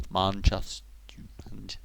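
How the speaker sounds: quiet, failed go at Mancunian; attempted Manchester accent. Shown as a demonstration. Searching for the lost accent, tentative Manchester accent. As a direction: try out a Manchester accent under your breath. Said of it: "I can't do Manchester now".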